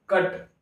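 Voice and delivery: "कट" as one short syllable; one breath. Shown as a demonstration. Teacher showing it comes out in one breath, "कट" said in one go. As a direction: let "कट" out in a single short burst. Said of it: "कट हमारा एक सांस में निकल जा रहा है".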